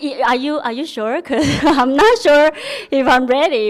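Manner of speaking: laughing disbelief. Retold or imitated. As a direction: laugh at how unreal the offer felt. Retelling her disbelief at the invitation.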